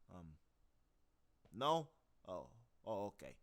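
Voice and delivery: offering leftover steak, then deflated; Eight Ball improv. Shown as a demonstration. Eight Ball offering fridge steak, then dropping it. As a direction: pitch the steak, then back off. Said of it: "that was a bit improvised".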